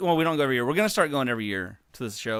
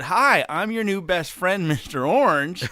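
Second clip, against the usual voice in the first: laughing mock greeting; 7 semitones higher, 6 dB louder than usual. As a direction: giggle while playing the eager new friend. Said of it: "And I said".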